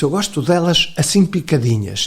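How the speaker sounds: lightly voiced, cheerful professor; retold good cheer. Professor leaving a heated defence, quoted in good cheer. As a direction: imitate a professor coming out in high spirits. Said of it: "saiu muito bem disposto".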